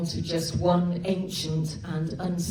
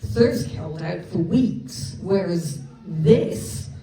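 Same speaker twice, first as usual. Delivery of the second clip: flustered; 3 dB louder than usual. Acted. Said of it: "words failed him".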